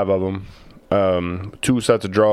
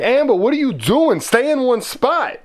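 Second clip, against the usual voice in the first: shrill-free high granny scold, pitched way up; imitating Gammy. Grandson mimics Gammy scolding Amber in the hallway, high granny voice.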